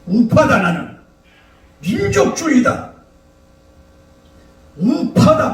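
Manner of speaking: high-pitched partisan slogan yell; mock shouting. A right-winger proclaiming his side at a rally, mock shouting. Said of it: "막 이러면서 막 소리 지르고".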